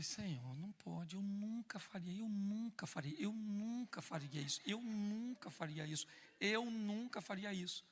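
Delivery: hushed, slow pleading to God; quiet pleading prayer. Retold or imitated. Alone in the shower, pleading softly with God. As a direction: murmur it over and over, softly begging.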